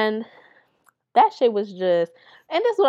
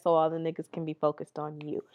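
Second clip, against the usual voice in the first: sly whisper, much softer, breath only; whispered aside; 5 semitones lower, 9 dB quieter than usual. Real, not acted. Telling viewers her friend wanted the attention, whispered aside. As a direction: let the audience in on the secret in a whisper.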